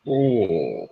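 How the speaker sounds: put-on a deliberately awful comic-book Jamaican accent; mock Jamaican accent. Mocking a comic villain's written Jamaican accent to a co-host. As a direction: ham up a bad fake Jamaican accent. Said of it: "awful Jamaican accent".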